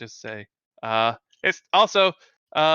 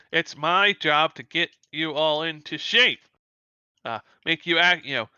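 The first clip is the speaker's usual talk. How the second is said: lightly voiced tough instructor, raised pitch; challenging instructor; 3 semitones higher than usual. Powerless instructor daring students to fight, lightly acted challenge. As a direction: lay down a challenge to the class. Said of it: "She's like".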